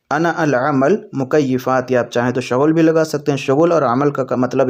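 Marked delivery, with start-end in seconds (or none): 0.1-1.9 very slow, drawn-out "انا العمل مکیفات"; slow Arabic demo. Shown as a demonstration. Teacher modelling the Arabic sentence slowly for viewers. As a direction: stretch each word of "انا العمل مکیفات". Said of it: "عربی میں اس طرح سے بولیں گے".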